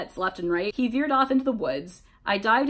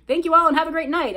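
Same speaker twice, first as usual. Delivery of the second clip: raised, high call to the crowd; yelled; 7 semitones higher, 6 dB louder, faster than usual. A narrator's reading. Singer thanking the crowd from the stage, yelled. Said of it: "I yelled".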